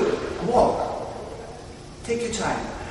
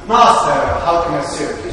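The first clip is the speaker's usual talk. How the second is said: humble servant; 3 semitones lower, 7 dB louder than usual. Shown as a demonstration. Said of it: "You can make it up".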